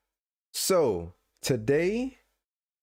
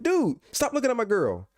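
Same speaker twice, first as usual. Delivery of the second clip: yelling at him; 11 semitones higher than usual. Retold or imitated. Gamer warning a rival off his girl, high yell. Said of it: "And I'm like".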